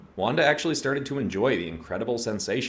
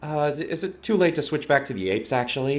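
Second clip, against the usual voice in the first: nervous laugh; 8 semitones higher, 4 dB louder than usual. Acted. Wanda regrets her hornet summon.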